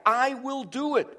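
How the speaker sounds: high, stressed "I" leading the line; emphatic I. Shown as a demonstration. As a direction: lift "I" well up. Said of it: "again, that's emphatic".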